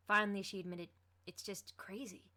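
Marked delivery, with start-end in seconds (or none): 1.3-2.3 soft, slow, drifting admission; hushed and distant; quieter. A narrator's reading. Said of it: "her voice dropping in volume".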